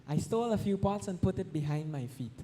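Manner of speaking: lightly voiced deity telling the priest; deity speaking. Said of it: "Gopinath appeared in the dream of the pujari and told him".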